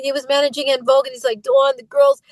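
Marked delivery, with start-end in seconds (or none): 1.4-2.2 imitated manager with Boston accent. Manager calling the singer about the group, imitated Boston accent. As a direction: put on a light Boston accent. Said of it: "I always do his accent".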